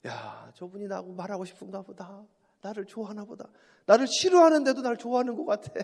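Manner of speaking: fond inner voice with a laugh. Retold or imitated. Pastor voicing his own amused thoughts about congregants, chuckling. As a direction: talk to yourself fondly and chuckle. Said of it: "제가 은혜가 충만하니까".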